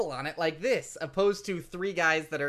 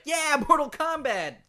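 hyped shout; 9 semitones higher, 4 dB louder, slower than usual. Retold or imitated. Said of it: "Sub-Zero was like".

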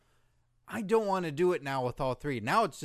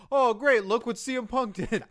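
loud, high mock announcer; sarcastic announcer voice; 7 semitones higher, 6 dB louder than usual. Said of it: "it would've been like".

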